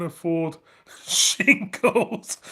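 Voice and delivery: slow, slurred Scottish lisp on "shingles"; a light Sean Connery Scottish voice; Sean Connery impression. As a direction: drawl "afford shingles" like Sean Connery, the s sounding like sh. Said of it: "what Sean Connery".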